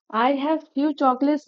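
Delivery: each word of I have few chocolates spaced out; slow example sentence. Shown as a demonstration. Teacher gives the negative example slowly. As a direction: read it slowly for students to copy. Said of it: "আমি যদি বলি".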